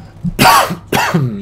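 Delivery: loud throat-clearing cough. Real, not acted. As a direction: cough hard, twice. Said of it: "Sorry about the cough".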